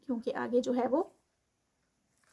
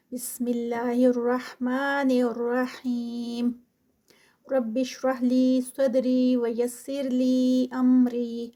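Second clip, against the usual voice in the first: slow, measured tajweed chant; Quran recitation; much slower than usual. Acted. Teacher opening class with slow recited prayers. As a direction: intone each prayer slowly like the start of a lesson.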